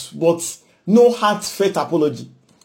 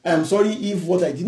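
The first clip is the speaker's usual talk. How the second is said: grudging if apology; 4 dB quieter than usual. Retold or imitated. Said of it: "They say we should apologize".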